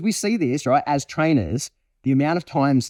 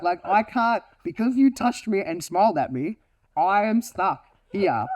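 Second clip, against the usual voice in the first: higher-pitched earnest dog appeal; pleading Malinois; 5 semitones higher than usual. Acted. Malinois asking the guest to stay, higher pleading voice. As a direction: voice a wound-up dog asking for company. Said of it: "And my Malinois like".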